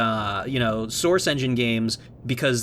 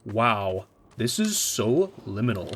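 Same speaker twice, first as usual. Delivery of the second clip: lightly voiced low, hushed wonder; a touch of fake profundity, lower; mock awed critic; 4 semitones lower than usual. Imitating people awed by games, lightly mocked low wonder. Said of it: "people that are like".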